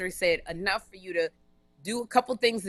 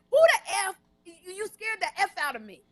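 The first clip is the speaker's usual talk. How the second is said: put-on yelling at the drunk man who scared her, furious and near tears; furious outburst; 11 semitones higher than usual. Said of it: "I was so angry".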